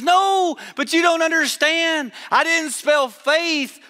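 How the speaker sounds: laughing confession. Retold or imitated. Confessing her slip to the group.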